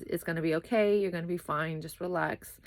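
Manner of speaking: gentle, soothing reassurance that fades to a whisper; calm reassurance. Retold or imitated. Partner reassuring anxious girlfriend, calm and gentle. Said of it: "but in a calm way".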